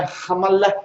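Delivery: "Ramalech" ending in a throaty h, not sh; guttural CH in Ramalech. Shown as a demonstration. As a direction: finish "Ramalech" on a rasped guttural ch. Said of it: "ele tem o som de ré".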